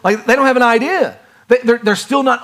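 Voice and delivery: chuckling through the words; laughing. Real, not acted. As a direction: laugh while saying it.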